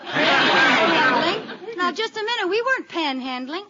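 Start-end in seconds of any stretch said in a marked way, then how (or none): 0.0-1.8 drawn-out, louder indignant question; shocked disbelief. Acted. Liz protesting to the officer who accuses her, shocked. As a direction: stretch the word out in outrage.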